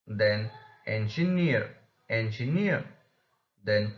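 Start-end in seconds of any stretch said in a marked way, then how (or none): 0.9-2.8 strong last syllable in "engineer"; stressed suffix. Shown as a demonstration. Teacher shows suffix rule, engineer stressed on last syllable. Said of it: "suffixes will only receive the stress".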